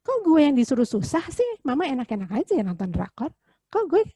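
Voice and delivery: lightly acted child's protest, pitch jumping up; a hint of an indignant kid; complaining child. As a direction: whine like a kid who feels unfairly treated. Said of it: "Anaknya kan gini".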